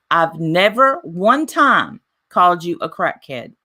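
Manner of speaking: slow, with NEVER and ONE TIME leaned on; retold protest, drawing out "never one time"; emphatic denial. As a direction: hit "never" and "one time" hard, taking your time. Retelling her side of an argument.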